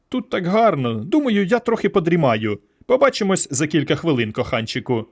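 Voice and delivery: a hint of a seductive alien woman drifting off; dreamy Myra. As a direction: Myra sinking into a sleepy daydream. Myra drifts off inside Gerston's mind.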